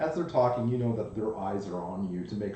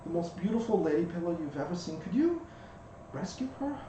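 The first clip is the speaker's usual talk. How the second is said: high pleading tiny bug voice; pixie; 8 semitones higher than usual. Acted. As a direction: beg for help as a tiny bug. GM voices the ladybug.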